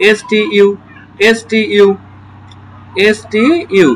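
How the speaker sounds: এসটিইউ spelt out, each letter separate; sounding out letters. Shown as a demonstration. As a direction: spell এসটিইউ slowly letter by letter. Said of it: "প্রথমে দুইটি কনসোনেন্টের সাথে যুক্ত হয়ে যাবে". (বানান করে ধীরে বলা)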